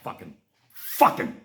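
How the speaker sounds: hissed under the breath; seething whisper. Real, not acted. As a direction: spit it out in a whisper.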